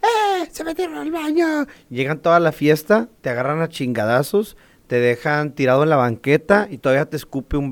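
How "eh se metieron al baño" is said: very high-pitched imitated shriek; mock scream. Woman alerting the party to an intruder, mock scream. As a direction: squeal it as a hammed-up alarm. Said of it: "empieza a gritar".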